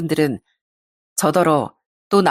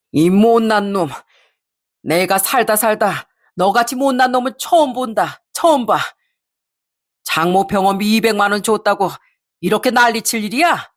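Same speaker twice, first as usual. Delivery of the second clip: scolding father; 2 semitones higher than usual. Acted. Father to son-in-law over hospital money, scolding. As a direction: give the father an exasperated telling-off.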